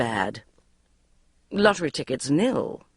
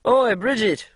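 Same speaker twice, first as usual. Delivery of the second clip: shouted; 5 semitones higher, 3 dB louder, slower than usual. Acted. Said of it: "he shouted".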